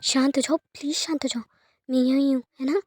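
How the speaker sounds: calm a crying man down gently; hushed, tender comforting to a sobbing friend; soothing. Acted. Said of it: "उसे calm down करते हुए कहती है".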